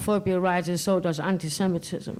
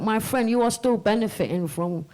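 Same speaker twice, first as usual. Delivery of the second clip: quoting the president; 3 semitones higher than usual. Retold or imitated. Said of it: "the president turned around and went".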